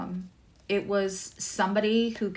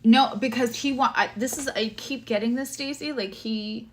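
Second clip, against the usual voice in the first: excited burst; 7 semitones higher, 6 dB louder than usual. Real, not acted. Sudden burst of insight in reading.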